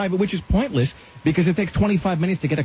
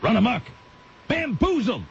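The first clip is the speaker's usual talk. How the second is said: imitating Malcolm X. Host griping about parking, quoting Malcolm X, mock oratory. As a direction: build it up like a fiery speech, peak on bamboozled. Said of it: "as Malcolm X would say".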